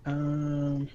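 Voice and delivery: soft unvoiced murmur; whispering to self. Real, not acted. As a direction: whisper it while thinking. GM muttering to self.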